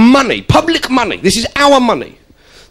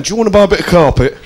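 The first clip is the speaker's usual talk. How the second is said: quick, offhand doorstep pitch; carpet salesman; faster than usual. Retold or imitated. Carpet seller at the door, lightly voiced and fast. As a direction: rattle off the pitch like a bored salesman. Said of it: "a bloke standing there ... going".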